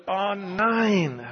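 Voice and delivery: high, loud laughing dismay. Retold or imitated. The preacher recalling his dismay at the dying woman, laughing. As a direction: laugh out the despair. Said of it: "Das war meine Reaktion".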